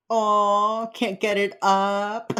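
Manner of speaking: co-host voicing Gideon mocking the killer; mocking taunt. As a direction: needle him with a jeering taunt. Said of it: "Gideon is like".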